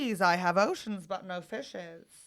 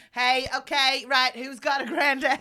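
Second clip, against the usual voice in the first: put-on louder, half-failed Long Island accent; attempted Long Island accent; 3 semitones higher, 5 dB louder than usual. TV medium asking the audience, shaky Long Island accent. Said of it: "I can't do the accent".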